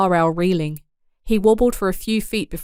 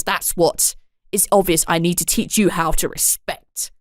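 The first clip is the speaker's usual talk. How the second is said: louder accusing rant; angry father; 3 dB louder than usual. Acted. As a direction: tear into the boy. Father berates the boy.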